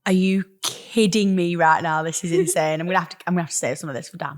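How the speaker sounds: talking while crunching food. Real, not acted. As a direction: mouth full of crunchy dessert. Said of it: "I'm sorry if you can hear me crunching".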